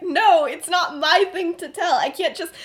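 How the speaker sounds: hammed-up heated rant; half-laughing loud outburst; mock shouting. Heated argument between friends.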